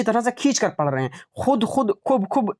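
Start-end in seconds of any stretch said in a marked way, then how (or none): 1.4-2.5 खूब said quickly with a short u; wrong short reading. Shown as a demonstration. Teacher shows what we are not doing, short खूब. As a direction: keep खुद and खूब short, no stretch. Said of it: "नहीं कर रहे हैं".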